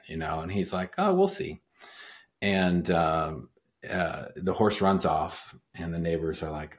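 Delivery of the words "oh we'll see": put-on calm old man. Old man voiced in parable.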